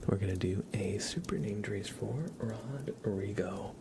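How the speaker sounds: slow whispered announcement; ASMR whisper. Acted. Announcing a name trace for a viewer, whisper. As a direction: whisper it like a secret.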